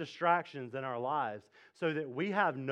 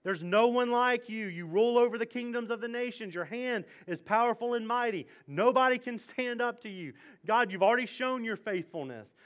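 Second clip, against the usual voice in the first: higher, louder exalted praise; praising prayer; 6 semitones higher, 4 dB louder than usual. Retold or imitated. Jehoshaphat reminding himself of God's power, exalted. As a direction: proclaim God's might. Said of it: "And he says".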